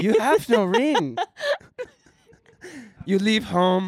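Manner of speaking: broken English. Pretend. Continuing broken English bit.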